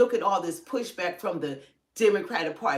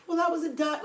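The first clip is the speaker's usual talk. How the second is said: high whiny mock voice, higher; mock tearful politician; 8 semitones higher, faster than usual. Mocking a senator who acts like crying, high whine. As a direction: imitate her fake teary plea. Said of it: "She's like".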